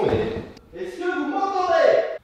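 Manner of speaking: high, drawn-out call heard through a wall; muffled, high-pitched call from another room; calling from next room. Shown as a demonstration. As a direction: call out to test the soundproofing. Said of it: "c'était le test d'isolation".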